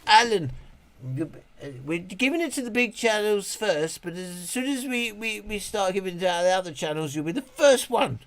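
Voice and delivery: parroting the polite brush-off; quoting the company rep. Retold or imitated. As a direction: mimic the promising reply. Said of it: "He's just".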